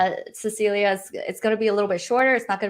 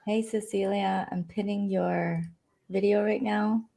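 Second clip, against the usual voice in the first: strained, worn-out voice; lost voice; 6 dB quieter than usual. Real, not acted. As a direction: talk through a tired voice. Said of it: "I think I lost my voice".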